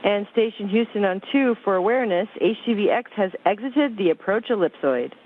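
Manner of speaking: thin crackly radio voice; radio transmission. Real, not acted. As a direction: speak over a radio link. Space station air-to-ground radio loop.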